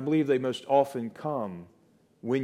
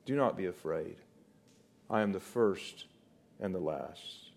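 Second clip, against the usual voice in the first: gentle reassurance; 6 semitones lower, 8 dB quieter than usual. Retold or imitated. Christ reassures the fallen John.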